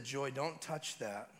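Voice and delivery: slow, measured parental warning; dad's warning tone. Retold or imitated. Father warning his baby daughter, slow and firm. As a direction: space the words out firmly, without raising your voice. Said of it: "Dad in his tone said".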